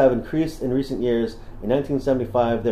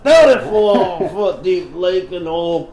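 slow, higher sexy Southern belle drawl, half laughing; 4 semitones higher, slower than usual. Pretend. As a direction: play a flirtatious Southern belle. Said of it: "read this one in a southern voice".

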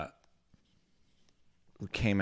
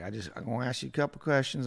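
quick, higher imitated Southern voice; Southern accent; 5 semitones higher, faster than usual. Stranger working up to asking for gas money, Southern accent. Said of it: "That dude's Southern accent".

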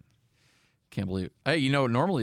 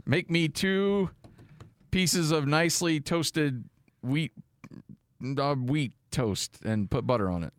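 toaster owner ordering the machine, voice command; slow, higher, spaced-out command to a smart device; 5 semitones higher, slower than usual. Pretend. Pretending to talk to a smart toaster, slow voice command. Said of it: "You're like".

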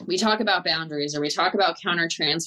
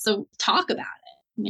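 whispered aside, slower; 4 semitones higher, slower than usual. Retold or imitated. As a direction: lean in and whisper it. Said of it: "telling therapists, like".

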